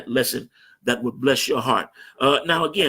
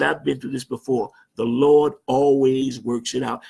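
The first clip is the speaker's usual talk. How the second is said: slow and unhurried, a touch of a calm bishop; 2 semitones lower, slower than usual. Retold or imitated. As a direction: reassure them as if nothing can shake you. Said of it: "the bishop just sat there very calm".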